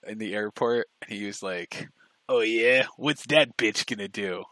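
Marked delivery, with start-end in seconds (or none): 2.3-4.4 mock angry guy. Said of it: "really angry Jew guy".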